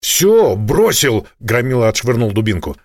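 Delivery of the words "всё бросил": high, loud and panicky; panicked surrender. A narrator's reading. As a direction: blurt it out to stop him shooting. Испуганный громила сдаётся. (испуганный выкрик громилы)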